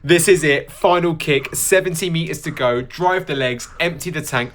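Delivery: puffing hard between words; breathless, blowing hard; out of breath. Real, not acted. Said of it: "I sound like I'm trying to blow out a candle".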